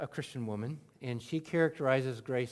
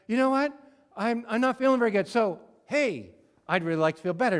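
mock whiny prayer; 7 semitones higher, 8 dB louder, faster than usual. Imitating a self-centred prayer.

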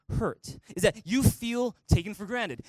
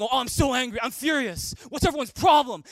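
raised, louder mock complaint building to a shout; mock angry rant; 3 semitones higher, 4 dB louder than usual. To everyone, a mock furious outburst. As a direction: play the hothead venting at everyone. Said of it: "just saying".

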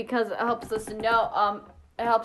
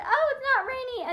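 mock surprise; 13 semitones higher than usual. Quoting surprise at forecast.

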